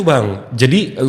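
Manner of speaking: ordinary talk, nothing marked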